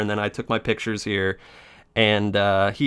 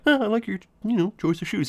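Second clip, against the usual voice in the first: sarcastic; 10 semitones higher, 3 dB quieter than usual. Retold or imitated. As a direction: fake praise dripping with scorn. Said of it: "real sarcastically, not kinda like that".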